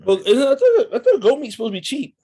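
high, fast, laughing through the words; can't believe it, cracking up; incredulous laughing squeal; laughing disbelief. Real, not acted.

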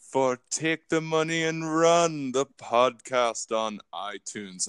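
put-on "My demands" said slow and pompous, with the accent slipping; a weak try at the smug villain voice; Dr. Evil. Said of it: "I lost this accent".

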